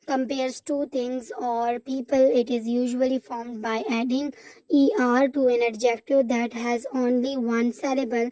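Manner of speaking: slow textbook reading; reading aloud. Acted. Teacher reading the grammar rule to the class, slow and deliberate. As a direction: spell out the rule slowly.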